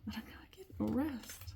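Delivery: breathless whispered repeat. Real, not acted. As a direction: whisper it, worn out. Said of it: "I'm just saying I'm out of breath".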